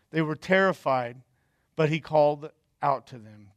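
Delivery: measured reading of the Bible passage; scripture reading. Acted. Pastor reads John six aloud to the church, measured. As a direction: read the text steadily to the congregation.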